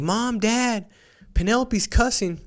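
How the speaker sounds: put-on high-pitched tattling child's call; mock yell. Nine-year-old telling on her sister to Mom and Dad, mock yell. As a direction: call out to parents like a tattletale kid. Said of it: "So she yells".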